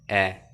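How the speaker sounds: "ए" said slowly as the short sound of small a, not the name A; letter sound. Shown as a demonstration. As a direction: give "ए" as the sound of a, drawn out. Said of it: "small A का जो sound होता है वो होता है".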